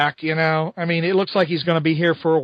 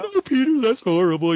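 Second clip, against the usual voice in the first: mock horrified Mary Jane; 5 semitones higher than usual. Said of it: "Mary Jane is going".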